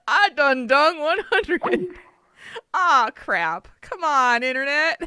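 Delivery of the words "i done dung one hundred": "I done dung one hundred" slowly, savouring the "dung"; mock tongue-slip. Mocking Nate's slip to the listeners, slow and amused. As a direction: drag out "dung" as a silly slip. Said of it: "And Nate just du-, he, uh, dung".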